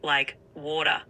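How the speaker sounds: "water" in an Australian accent. Shown as a demonstration. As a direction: demonstrate "water" the Aussie way. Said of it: "In an Australian accent, I'd say".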